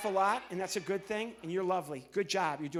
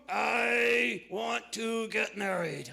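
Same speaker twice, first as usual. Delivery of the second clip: very slow, louder dopey puppet drawl; 2 semitones higher, 6 dB louder, much slower than usual. Acted. Puppet Zero declares he wants to marry, slow. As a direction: draw it out like a lovestruck puppet.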